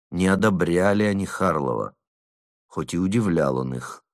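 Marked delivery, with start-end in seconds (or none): none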